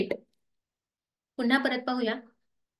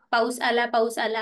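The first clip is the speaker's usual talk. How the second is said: mock children's shout. Teacher retelling kids yelling at the rain, mock shout. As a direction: call out the rain like a happy child. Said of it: "असं आम्ही मोठमोठ्याने ओरडायला लागलो".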